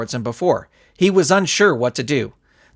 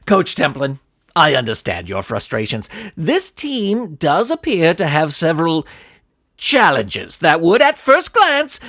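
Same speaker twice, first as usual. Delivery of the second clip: sly villain. Acted. Villain skull's measured promise.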